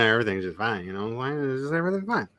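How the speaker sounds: quick, nasal Ozark demo; easygoing Ozark twang, consonants dropped; Ozark accent. Shown as a demonstration. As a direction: do an Ozark accent high in the nose. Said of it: "the high nasal region of your voice".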